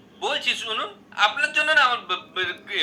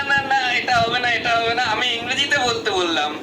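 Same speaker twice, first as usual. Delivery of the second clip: ordinary talk, nothing marked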